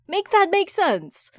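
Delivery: loud slowed-down exasperation; exasperated outburst. Acted. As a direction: demand it make sense, fed up. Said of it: "whatever Tim usually says".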